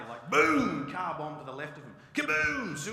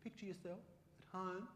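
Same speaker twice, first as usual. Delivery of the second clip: soothing new-age voice; 4 semitones higher, 10 dB quieter, faster than usual. Retold or imitated. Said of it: "she'll be like".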